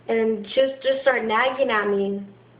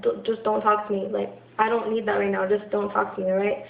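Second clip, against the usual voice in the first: calm. Retold or imitated. Asking mom calmly to stop talking, calm. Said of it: "sometimes I'll even say it calm".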